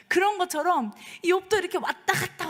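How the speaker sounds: usual speaking voice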